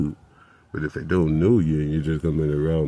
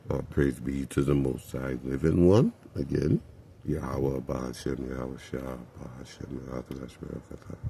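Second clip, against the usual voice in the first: talking through a mouthful; words round stuff in the mouth; mouth full of goop; 3 semitones lower, 4 dB quieter than usual. Real, not acted. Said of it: "I gotta leave this stuff in my mouth".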